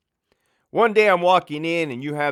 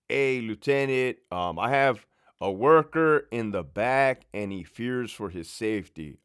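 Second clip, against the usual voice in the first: put-on drunk caller. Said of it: "kinda has a lisp or a speech impediment".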